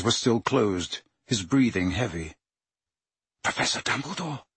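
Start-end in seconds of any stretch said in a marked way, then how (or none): 3.4-4.4 strained. A narrator's reading. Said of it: "his voice strained".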